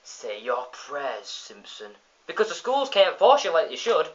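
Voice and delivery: lightly voiced pious neighbour; Ned Flanders voice. Ned warning the boy, mock preachy. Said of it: "he's like".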